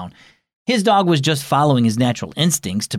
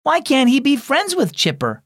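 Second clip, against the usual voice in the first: put-on little girl voice; 11 semitones higher than usual. Little sister complaining.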